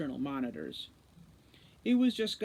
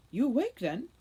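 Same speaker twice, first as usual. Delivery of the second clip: 1 strange human voice; 7 semitones higher, 5 dB louder than usual. A narrator's reading. A strange voice, not elfin.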